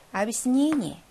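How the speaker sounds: 아비스니니 with a reduced 'i' vowel, not 'ya'; unstressed ya as i. Shown as a demonstration. Teacher checking choice five, reduced 'i' in 아비스니니. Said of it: "강세가 없어서".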